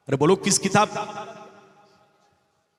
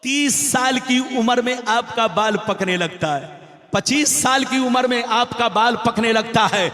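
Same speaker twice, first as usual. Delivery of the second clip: preaching; 3 semitones higher than usual. Acted. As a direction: preach to a big crowd, stretching key words. Preaches to a crowd. (जोशीली तक़रीर के अंदाज़ में)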